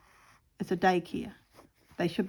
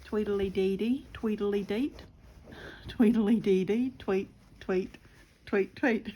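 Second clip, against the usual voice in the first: birdsong imitation. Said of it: "Birds are around".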